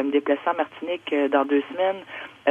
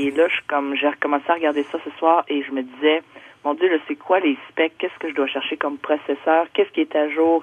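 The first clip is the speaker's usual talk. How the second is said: over a landline phone. Real, not acted. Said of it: "on va aller au téléphone".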